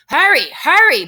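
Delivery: high, loud urging; urgent call. Acted. Teacher reads Baby urging Mercy on, calling loudly. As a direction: call it out in two high bursts. Storybook character urging someone on.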